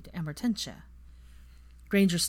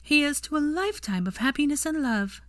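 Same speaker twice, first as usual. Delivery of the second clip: higher, mock-solemn toast; 9 semitones higher than usual. A narrator's reading. Granger toasting Draco and his dessert, mock solemn. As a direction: deliver it like a wedding speech, tongue in cheek. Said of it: "with great solemnity".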